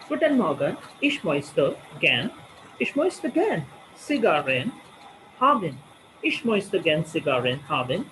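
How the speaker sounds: a shopper lightly voicing a polite order at a shop counter; lightly acted conversation. Shown as a demonstration. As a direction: speak it like a small everyday exchange. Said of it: "you will practice like that".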